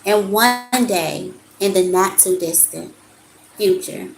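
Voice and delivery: measured, emphatic reading of card text. Acted. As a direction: read the card like a gentle sermon. Reads oracle card aloud.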